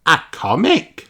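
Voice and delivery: put-on high, slow child answer; a bright child offering an idea; little Peppa voice. Peppa answering her teacher, high child voice.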